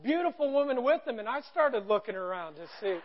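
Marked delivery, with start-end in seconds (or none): 0.0-1.2 mild mock yell, higher pitched; imitated crew calling out together; retold group yell. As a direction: echo the vendors' call. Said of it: "they all yell out loud".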